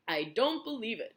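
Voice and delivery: loud, high protest; shouted, raising voice. A narrator's reading. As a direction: shout it in disbelief. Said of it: "raising his voice".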